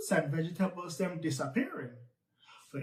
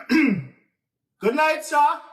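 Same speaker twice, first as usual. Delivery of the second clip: polite greeting; 7 semitones higher, 7 dB louder, much slower than usual. Acted. Greeting the tar baby.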